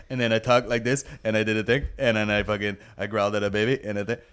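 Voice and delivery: mock speech impediment; Chris D'Elia. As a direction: imitate a comic's affected stage voice with garbled speech. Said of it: "develop a fucking speech impediment there".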